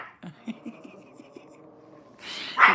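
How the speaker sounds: breathy, voiceless giggle. Real, not acted. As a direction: laugh mostly on air. Amused by her dog.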